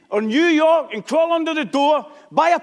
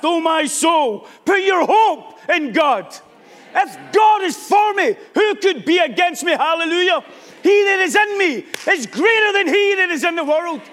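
higher-pitched, declamatory sermon delivery; impassioned preaching; 4 semitones higher than usual. Real, not acted. Preacher urging the saints to speak to themselves in faith, impassioned. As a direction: preach it out with rising conviction.

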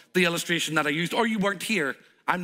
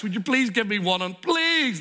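pleading; 3 dB louder than usual. Acted. Ben begs for free coffee.

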